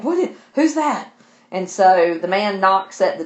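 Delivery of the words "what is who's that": sharply higher, startled voice; half-acted jump at an unseen voice; startled fright. Jane startled by a voice in the dark, frightened. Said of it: "And she's terrified".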